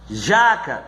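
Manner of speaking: slow "jaca" with a long, strong JA; stress on JA. Shown as a demonstration. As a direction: lean on the first syllable, JAAA-ca. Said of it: "é o já".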